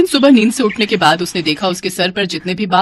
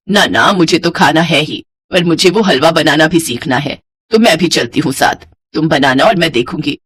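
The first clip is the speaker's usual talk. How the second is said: lower-pitched mother-in-law, insistent; lightly voiced mother-in-law; 5 semitones lower than usual. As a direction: lightly play an insistent older woman.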